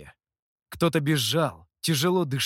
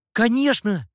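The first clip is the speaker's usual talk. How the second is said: higher, louder beaming exclamation; joyful smiling yes; 7 semitones higher, 6 dB louder than usual. Acted. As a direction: burst out with a grin. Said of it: "всё так же широко улыбаясь". (радостно, с широкой улыбкой)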